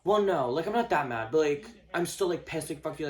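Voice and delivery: put-on indignant protest; mimicked lingering anger. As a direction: imitate someone still pissed while denying it. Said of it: "and you're just like".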